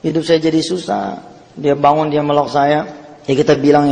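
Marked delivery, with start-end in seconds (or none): 0.1-1.2 imitating crying. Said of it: "Sambil nangis dia ngomong".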